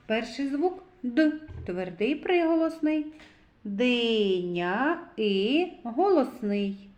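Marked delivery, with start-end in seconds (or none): 3.6-5.7 slow "Диня", then the vowel "і" alone; sounding out. Shown as a demonstration. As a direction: stretch "Диня" and isolate its middle vowel. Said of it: "зробимо звуковий аналіз слова".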